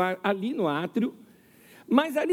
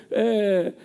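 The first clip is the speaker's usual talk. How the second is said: ordinary talk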